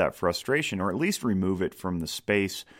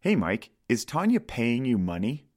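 fresh restart; 5 semitones higher than usual. Shown as a demonstration. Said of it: "Start over".

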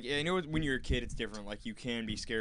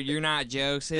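Dale Gribble; 2 semitones higher, 4 dB louder, slower than usual. Retold or imitated. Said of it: "He looked like Dale Gerbil from King of the Hill".

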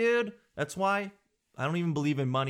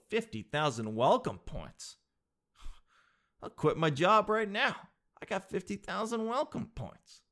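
mock excited sucker; 6 semitones higher than usual. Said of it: "And you go".

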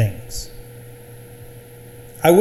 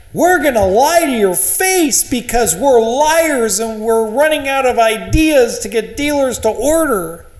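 high, sneering mock confession; mock honest manufacturer voice; 8 semitones higher than usual. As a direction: sneer it like a liar owning up.

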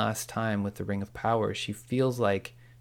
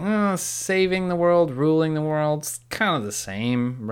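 mock offhand dismissal; 6 semitones higher, 4 dB louder than usual. Retelling Sauron shrugging off the difference.

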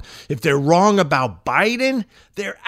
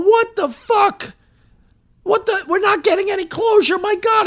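much higher mock cry of outrage; mock outraged victims. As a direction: play the victims' disbelief, hammed-up. Imitating outraged Epstein victims.

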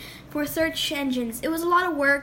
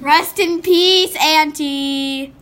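mock solemn; 9 dB louder, much slower than usual. Mock funeral for ant.

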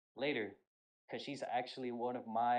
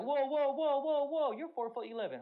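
startled whoa; 13 semitones higher, 5 dB louder than usual. Retold or imitated. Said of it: "I'm like".

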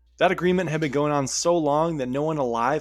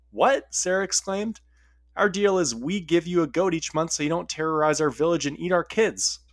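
mock scream; 6 semitones higher than usual. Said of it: "Sarah was screaming now".

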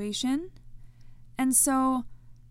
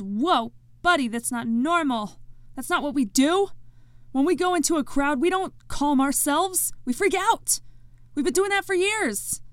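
higher, louder voice of an alarmed body; 4 semitones higher, 4 dB louder than usual. Pretend. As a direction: play your own body, rising into panic. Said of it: "and your body goes".

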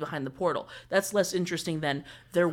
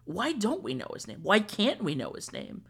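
high, swooping curiosity; wondering, pitched-up ooh; intrigued; 5 semitones higher than usual. Retold or imitated. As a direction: re-enact a newcomer hooked by a mystery. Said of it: "that's the intrigue thing".

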